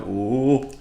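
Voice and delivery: warm-up ooh in an Indian accent. Shown as a demonstration. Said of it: "good to start by going".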